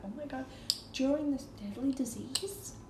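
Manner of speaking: hushed Canadian amazement; Canadian accent. Acted. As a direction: gush in an amateur Canadian accent. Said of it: "Canadian accent, so please don't hate me".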